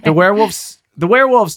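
alarmed shout. Acted. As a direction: shout the warning in panic. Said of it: "Todd shouts".

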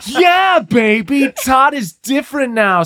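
Austin Powers impression. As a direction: swing it like Austin Powers, shouting it out. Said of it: "an Austin Powers thing".

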